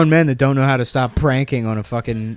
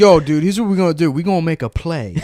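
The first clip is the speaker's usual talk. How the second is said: mock scheming teammates. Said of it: "They're like".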